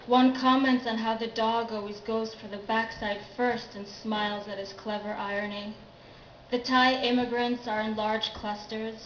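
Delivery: recited verse, strong attack on each new sentence; poetry reading. Acted. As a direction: read your poem out, settling at each line's end.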